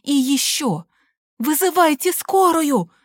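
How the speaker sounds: высоко, громко, медленно; командный окрик; гаркнуть. A narrator's reading. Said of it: "гаркнула я". (мать гаркает на свекровь, высоко)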